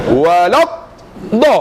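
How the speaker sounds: "Walad" held apart from a firm "da"; correct articulation. Shown as a demonstration. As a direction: stop after "Walad", then hit "da". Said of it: "da ni tak kat tadi". (sebut "Walad" dan "da" berasingan)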